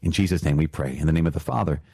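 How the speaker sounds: prayer. Acted. Closing prayer over the commandment.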